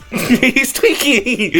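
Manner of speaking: slow laughing repeat. Real, not acted. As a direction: laugh through it, drawn out.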